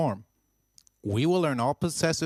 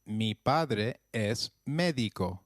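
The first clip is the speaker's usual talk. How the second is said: slow model phrase; slower than usual. Shown as a demonstration. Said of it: "Try that, please".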